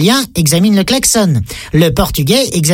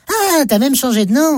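high-pitched amazed reaction; surprised; 4 semitones higher than usual. Acted. Man undeterred by stranger's correction, amazed. Greeter amazed once more.

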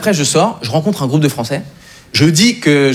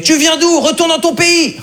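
mock racist yell; 10 semitones higher, slower than usual. Online troll telling him to go home, mock angry. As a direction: bark it like a troll. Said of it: "Il y a un mec qui a commenté".

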